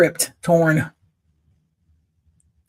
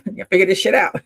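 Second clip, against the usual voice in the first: loud retold dad; 3 semitones higher, 7 dB louder, faster than usual. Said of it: "he would say".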